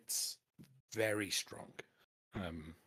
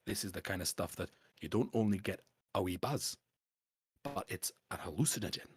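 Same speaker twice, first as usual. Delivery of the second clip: canny Scottish dwarf dealer; 3 dB louder than usual. Acted. Dwarf pitches smuggling bottles to a collector, canny Scottish dwarf. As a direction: sell the scheme in a Scots dwarf voice. Game master voices dwarf.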